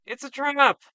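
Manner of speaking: high, loud, desperate shouting of a name; anguished cry. Acted. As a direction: scream for your lost friend in panic. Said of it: "He cries out in anguish".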